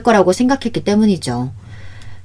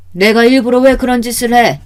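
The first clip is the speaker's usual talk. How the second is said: louder, higher, offended retort; indignant denial; 5 semitones higher, 5 dB louder than usual. A narrator's reading. Mother answering daughter's accusation, indignant denial. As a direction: protest your innocence hotly.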